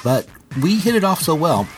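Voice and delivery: measured, scripted host narration; podcast intro read. Acted. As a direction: read the show's introduction to listeners.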